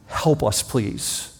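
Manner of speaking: please fading to a whisper; a hushed, begging cry; pleading softly. Acted. Bitten people begging God for help, fading whisper.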